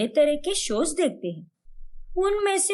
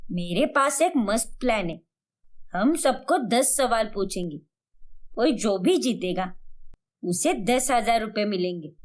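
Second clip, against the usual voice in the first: lightly voiced scheming elder, lower pitch; confident mother-in-law; 3 semitones lower than usual. Mother-in-law tells daughter-in-law her game plan, lightly voiced, confident. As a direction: lay out the plan as a sure-of-herself mother-in-law, lightly played.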